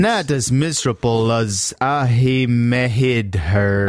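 slow, sounded-out New York accent; laboured fake New York accent; phonetic New York accent. Shown as a demonstration. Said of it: "sound like you're from New York".

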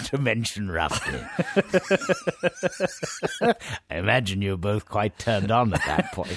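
talking through real laughter; cracked-up, giggly delivery; helpless laughter. Real, not acted. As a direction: struggle to get the joke out while laughing. Helpless laughter over running joke.

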